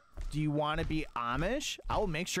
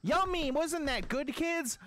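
squealed yummy; 10 semitones higher, slower than usual. Acted. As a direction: cheer it like a kids' show host. Dad squeals over snack.

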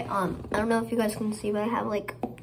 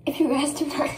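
odd put-on voice; 4 semitones higher, 5 dB louder than usual. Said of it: "I don't know why I did it like that".

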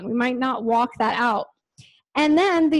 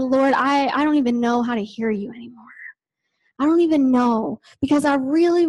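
broken prayer. Retold or imitated.

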